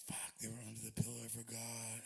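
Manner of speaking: mock whispered regret; whispered dismay. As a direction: hiss it to yourself in horror. Realizing the chocolate melted.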